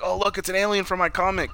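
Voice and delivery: lightly voiced kid. Farm kid spots Marty's radiation suit, lightly voiced kid. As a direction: point out a marvel as a kid would. Retells the kid seeing an alien.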